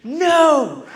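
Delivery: high, loud wailing for Mommy; crying toddler. Retold or imitated. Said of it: "And she's like".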